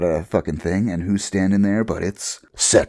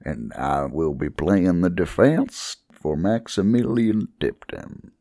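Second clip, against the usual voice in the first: lawyer voice; slower than usual. Pretend. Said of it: "I don't wanna do this voice".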